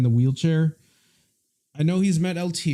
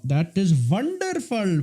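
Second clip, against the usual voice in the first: put-on Indian accent; 3 semitones higher, slower than usual. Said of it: "I'm talking like a person from India".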